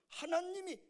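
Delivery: ordinary talk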